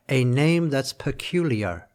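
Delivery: northeastern American, slow, every syllable of "peculiar" crisply announced; slow crisp northeastern American, giving "peculiar" all four syllables. Shown as a demonstration. Lecturer demonstrating a northeastern American reading of the line, slow and crisp. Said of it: "if you do it in this n-, n-, northeastern American".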